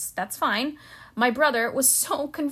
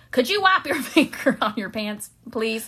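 louder Southern security man, amused; Southern accent; 4 dB louder than usual. Acted. Security man to the young brother, Southern accent. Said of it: "Your Southern accent is".

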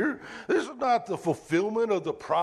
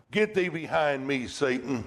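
stern rebuke; 3 semitones lower than usual. Retold or imitated. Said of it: "he's talking to Satan".

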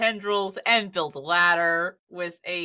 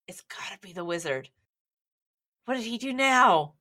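rising panic, higher and louder; panicking townsfolk, getting shriller; squeaky panicky sidekick; 6 semitones higher, 4 dB louder than usual. Acted. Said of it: "hear whispers of".

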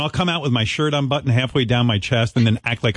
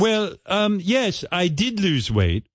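lightly voiced Simon Cowell; 6 semitones higher, slower than usual. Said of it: "reenactment of Simon Cowell's interview".

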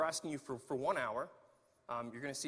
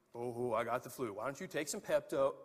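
mock scoffer; 6 semitones lower than usual. Mocking voice of a scoffer.

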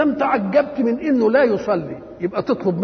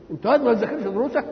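higher, mildly reproachful question; disapproving question; 5 semitones higher than usual. Acted. Elder challenges a pupil neglecting lessons, mild higher-pitched disapproval. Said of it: "وما دام أنكرت ديا".

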